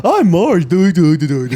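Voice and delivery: quoting Simpsons. Retold or imitated. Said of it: "It was, uh".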